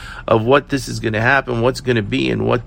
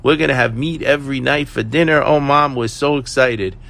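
higher-pitched imitation of delighted children; happy, excited kids; 5 semitones higher than usual. Happy kids tell Mom about meat every night, excited. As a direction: gush like children telling Mom their dream. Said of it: "the kids are so happy and say".

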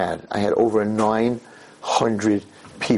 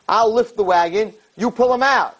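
high, emphatic order; urgent command; 9 semitones higher, 3 dB louder than usual. Acted. Yaakov to woman with husband under wagon, urgent high command. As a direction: take charge in an emergency, pitched up.

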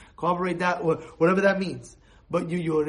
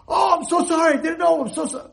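loud, high, desperate plea for forgiveness; frantic apology; 9 semitones higher, 5 dB louder than usual. Acted. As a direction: beg in a panic. Begging forgiveness from screaming man.

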